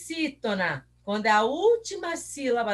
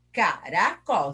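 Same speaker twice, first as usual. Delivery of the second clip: CARACOL slowly in three pieces, ca... ra... col; slow split of CARACOL with pauses; syllable by syllable; 5 semitones lower, slower than usual. Shown as a demonstration. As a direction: break CARACOL into separate falling beats. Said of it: "tem três sílabas".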